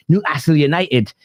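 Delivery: attempted Geordie accent, badly done; terrible Geordie accent. Host jokily names Newcastle United, terrible Geordie accent. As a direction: have a clumsy go at a Geordie accent. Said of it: "It's a terrible accent".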